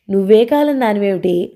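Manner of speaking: a light laughing question, lightly voiced; teasing laugh. Priya teasing her sister-in-law about modern times, lightly laughing. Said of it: "అంటూ నవ్వింది ప్రియ".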